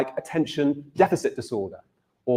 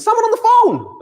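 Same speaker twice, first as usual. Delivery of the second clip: much higher and louder American call; American accent; 7 dB louder than usual. Retold or imitated. Wife calls to her husband about the phone, high loud American call. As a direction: sing it out to him in an American accent. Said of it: "I'm not gonna do any more American accents".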